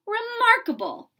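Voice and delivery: high, loud exclamation of wonder; cried out. Acted. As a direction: cry it out in amazement. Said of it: "he cried".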